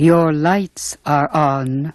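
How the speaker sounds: robotic computerized voice. Voicing a car's alert telling the driver to fasten seatbelts: computerized car voice alert. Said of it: "that new computerized voice alert".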